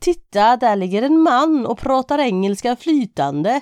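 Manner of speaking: put-on poorly done Gothenburg accent. Telling a joke about Kolla and Ada at the river, in a bad put-on Gothenburg accent. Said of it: "jag kan inte säga flytande på göteborgska".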